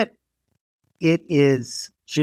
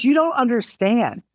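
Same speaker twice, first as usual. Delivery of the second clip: lightly imitated Brit, raised pitch; British designer; 10 semitones higher than usual. British designer correcting her American friend, lightly imitated. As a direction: retell her protest in a higher voice. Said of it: "She goes".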